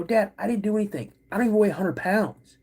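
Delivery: high-pitched kid protesting innocence, retold; indignant protest. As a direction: act out an accused boy pleading his case. Boy protests dad's accusation.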